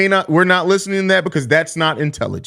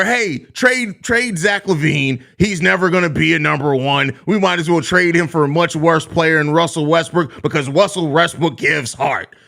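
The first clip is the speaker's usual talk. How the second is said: mock fan. Streamer mocks fans wanting LaVine traded, mock voice. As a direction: mimic a fan begging for a trade.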